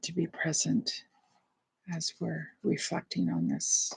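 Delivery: hushed reflective prompts, spaced by pauses; quiet, prayerful meditation guide; guided meditation. Real, not acted. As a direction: pose it softly, leaving room to ponder.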